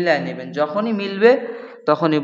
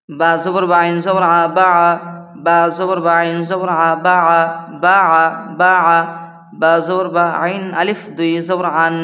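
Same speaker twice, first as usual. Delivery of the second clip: louder, rhythmic letter-by-letter chant; Qaida spelling recitation; 4 dB louder than usual. Acted. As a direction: spell it out to students in a chanting beat. Spells out Arabic syllables aloud.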